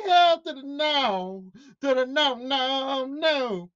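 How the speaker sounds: slow, drawn-out comic refusal; sassy, dragged-out no; emphatic refusal. Real, not acted. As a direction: stretch every no out long.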